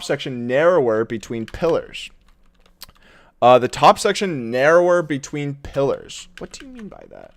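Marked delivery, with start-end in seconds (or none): 6.4-7.3 very deep, low trailer narrator; booming dramatic question; movie trailer voice. Shown as a demonstration. Drops into the trailer voice.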